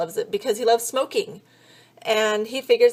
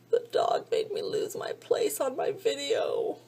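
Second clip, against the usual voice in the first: slow soft whisper; whispered aside; 5 semitones higher, 6 dB quieter than usual. Real, not acted. Vlogger annoyed at dog, quiet slow whisper. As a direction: whisper it under your breath.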